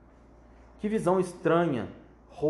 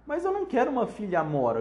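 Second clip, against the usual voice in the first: shout; 6 semitones higher, 4 dB louder than usual. Acted. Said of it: "gritou a senhora Chataclete".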